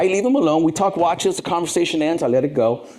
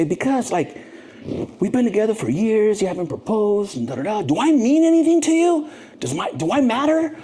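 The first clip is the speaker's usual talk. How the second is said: put-on pleading girlfriend; 10 semitones higher than usual.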